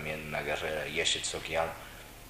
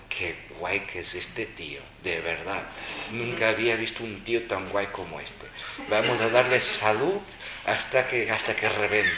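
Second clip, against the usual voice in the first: lightly voiced admiring buddhas, louder at the end; a hint of amused buddhas gazing down, building to louder; mock buddhas; 3 semitones higher, 5 dB louder than usual. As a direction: playfully voice buddhas watching from above. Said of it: "budas estuvieran allá en el alto mirando".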